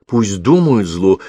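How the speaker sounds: slow, emphatic outburst; mock cry out. Girl defying what the police might think, slow emphatic outcry. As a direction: fling the words out slowly and firmly. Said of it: "выкрикнула девушка".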